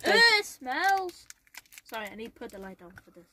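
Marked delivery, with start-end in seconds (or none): 0.0-1.3 disgusted. Real, not acted. Smelling sour candy.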